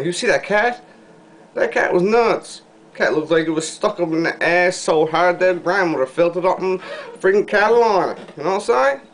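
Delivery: incredulous high-pitched riff; worked-up rant. Real, not acted. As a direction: rant about it, voice rising high. Ranting about the crazy cat.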